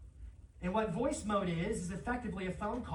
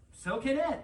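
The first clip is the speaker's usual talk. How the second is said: mock hyped-up; 7 semitones higher, 5 dB louder than usual. Shown as a demonstration. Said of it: "enthusiastically on drugs".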